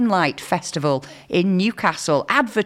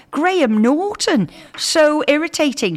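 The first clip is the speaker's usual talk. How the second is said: irritated; 9 semitones higher than usual. Retold or imitated. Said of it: "she said".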